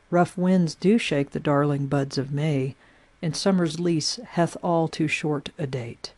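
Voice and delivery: measured, unhurried poetry reading; poem reading. Acted. Rereads the first quatrain.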